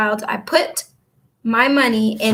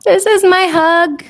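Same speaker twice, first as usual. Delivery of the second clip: loud, high, drawn-out pretend hug; effusive virtual hug; 7 semitones higher, 8 dB louder, slower than usual. Streamer sending a viewer a virtual hug, effusive. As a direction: stretch it out big and high like a squeeze.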